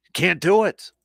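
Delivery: exasperated emphatic insistence; emphatic repeat. Real, not acted. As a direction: hit it hard the second time. Repeats the line, second time louder.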